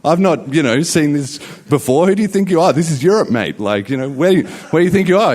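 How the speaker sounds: hammed-up rant of an offended pizza man; imitating an angry waiter. Retold pizza seller yelling at the foreign customer, mock furious. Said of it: "the guy immediately blows up at me".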